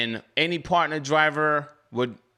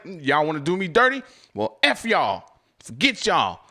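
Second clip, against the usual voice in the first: mock angry retort. To Grubhub after the dropped blocks, mock angry. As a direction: fling it back at them like he's done.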